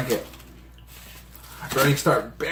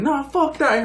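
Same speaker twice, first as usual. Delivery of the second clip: mock angry refusal; 10 semitones higher, slower than usual. Acting out her angry refusal.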